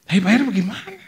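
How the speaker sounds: high, loud incredulous question; startled protest. Retold or imitated. Niece answering an order to pay, startled high protest.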